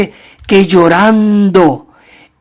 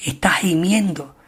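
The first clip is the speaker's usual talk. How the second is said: hushed whisper; 6 dB quieter than usual. Acted. Creation groaning, hushed.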